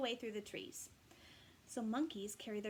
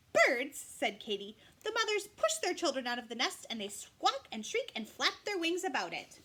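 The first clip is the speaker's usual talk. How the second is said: scornful mother; 4 semitones higher, 7 dB louder than usual. Acted. Katy scorns birds.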